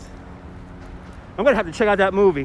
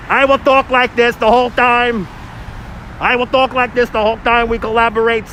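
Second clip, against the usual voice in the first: silly put-on voice. Joke voice, laughing around it.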